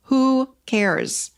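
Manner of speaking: carefree "Who cares?" falling away at the end; light who cares. Shown as a demonstration. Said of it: "You gotta start saying to yourself".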